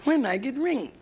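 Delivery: high, whiny repeated demand; whiny wife nagging for a ring. Retold or imitated. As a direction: pester him like a nagging wife. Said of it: "she asked me".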